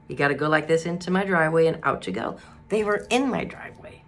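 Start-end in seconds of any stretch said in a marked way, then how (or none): 2.7-4.0 hushed, disbelieving whisper; dismayed whisper. Retold or imitated. Telling listeners how neighbors blocked her, whispered in dismay. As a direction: breathe it out in disbelief.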